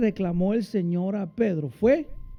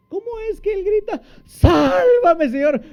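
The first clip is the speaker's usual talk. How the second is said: mock cry; 11 semitones higher, 6 dB louder than usual. Mocking Peter's exaggerated cry.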